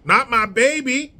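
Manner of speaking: mildly performed cry of a protective parent; acted American character. Comic sketch of an American parent, lightly voiced protest. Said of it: "And scene".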